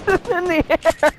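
high, slow, excited shout. Real, not acted. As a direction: stretch it out in surprise. Shouting at something in game.

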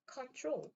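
"control" with the stress on its second syllable; last vowel of "control" stressed. Shown as a demonstration. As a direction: say "control" leaning on the final "trol". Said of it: "뒤에 모음에 강세가 있습니다".

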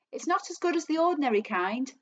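grumbling with a mouth full of food. A narrator's reading. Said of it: "talking with his mouth full".

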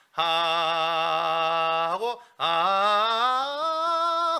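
"하" and "아" stretched out very slowly; slow octave demo. Shown as a demonstration. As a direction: demonstrate the octave jump slowly. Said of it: "한 옥타브에서 해요". (한 옥타브 시범, 아주 느리게)

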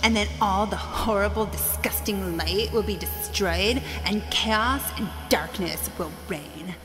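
echoing evil villain speech; grand dark lord monologue; booming echoing villain monologue. Acted. Villain's evil monologue, named line 58.

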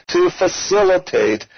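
facilitate said with extra weight; stress on facilitate. Real, not acted. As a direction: lean on facilitate. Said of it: "and I emphasize facilitate".

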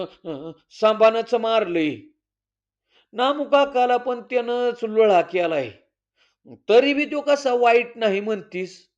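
son arguing back hotly; angry. Acted. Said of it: "Ram चिडून बोलला". (चिडून बोलणं)

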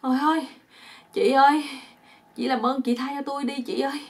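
high, loud begging outburst; acted pleading cry. Bound man begging two women to release him, pleading cry. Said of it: "ổng mới la lên".

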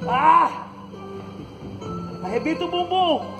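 ordinary talk

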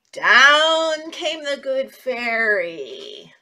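very slow, drawn-out story line; dramatic storytelling. Acted. Teacher telling the fairy's arrival to children. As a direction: stretch it out slowly.

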